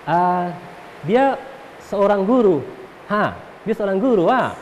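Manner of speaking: lightly demonstrated Kupang Malay question with tag "ah"; Kupang dialect. Shown as a demonstration. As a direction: say it the Kupang way, ending on a tagged "ah". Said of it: "kalau bahasa Kupangnya begini". (logat Kupang)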